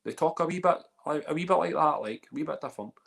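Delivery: high-pitched Dundee accent demo; Dundonian accent. Shown as a demonstration. Host explains how they talk in Dundee, high Dundonian accent. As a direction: lift it high into a Dundonian lilt. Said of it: "Or we could be more like Dundonian".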